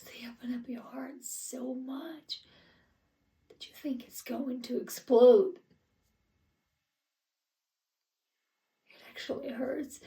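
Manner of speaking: soft, half-whispered confession of love; aching tenderness. Acted. Grieving parent on loving a child, hushed and aching. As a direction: let the voice drop to a near whisper, aching.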